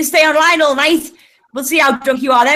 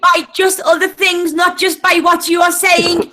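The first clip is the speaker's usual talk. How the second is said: angry; 3 semitones higher, slower than usual. Real, not acted. Angry partner scolding on stream.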